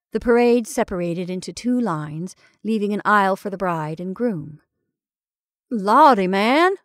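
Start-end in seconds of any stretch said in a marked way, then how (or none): 5.7-6.8 louder booming exclamation; roaring. Acted. Jumbo answering the revellers, roaring. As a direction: roar it out happily. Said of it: "roared Jumbo".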